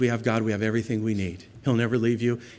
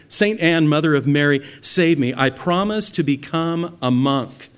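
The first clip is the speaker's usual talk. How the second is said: crying out; 3 semitones higher, 5 dB louder than usual. Retold or imitated.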